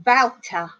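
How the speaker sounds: "Wouter" with a v-like W and ow vowel; imitated foreign mispronunciation. Teacher quoting her pupil's puzzling word, imitated mispronunciation. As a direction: say "Wouter" as vow-ter, imitating the learner. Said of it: "I can't understand. Wouter".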